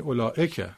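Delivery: اولائکه with the ئِ lifted; stress on third syllable. Shown as a demonstration. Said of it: "کدومش رو بالاتر ببرید". (اولائکه با تکیه روی بخش سوم)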